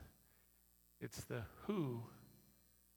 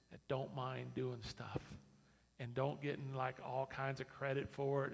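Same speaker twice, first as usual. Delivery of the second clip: usual speaking voice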